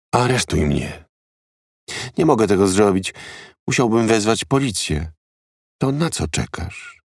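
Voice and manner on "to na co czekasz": breathed out in a hushed, soft whisper. Narrator reads a woman's line to Evans, whispered. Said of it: "Wyszeptała".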